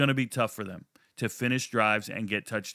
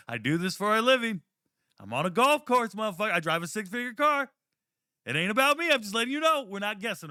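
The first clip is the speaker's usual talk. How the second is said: flex hard on the doubters; boastful rant; 6 semitones higher than usual. Real, not acted. Defending his picks to doubters, boastful rising rant. Bragging about assessing talent.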